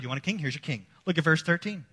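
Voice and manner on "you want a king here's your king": quiet echo of God. Retold or imitated. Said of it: "And that's what God did".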